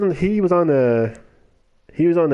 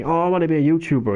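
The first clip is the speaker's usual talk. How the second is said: mock eager kid; 5 semitones higher, faster than usual. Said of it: "he was invited on".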